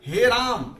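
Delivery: pluta call, long vowel held out; a loud prolonged calling cry. Shown as a demonstration. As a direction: call out to Ram, holding the vowel. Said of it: "मात्र पुकारने के समय".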